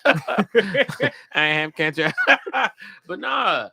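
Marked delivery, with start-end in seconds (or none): 0.0-2.1 slow robot voice through a laugh; laughing robot impression. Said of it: "the robot voice".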